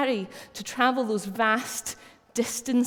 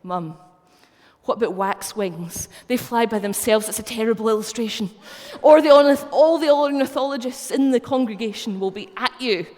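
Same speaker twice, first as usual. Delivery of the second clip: voicing her son's louder and louder objection; son's mock protest; 8 dB louder than usual. Mum retells son's objection to her illustration, loud mock protest. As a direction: play the know-it-all son, rising to a loud protest. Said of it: "He said".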